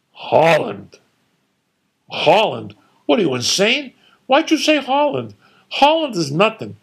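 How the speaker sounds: outraged disbelief, high and loud; incredulous. Retold or imitated. Father scoffing in disbelief at his son's answer.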